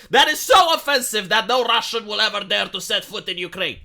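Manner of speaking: a hint of a grand soldier announcing to the Russians; mock earnest soldier. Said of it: "are the Ukrainian soldiers like".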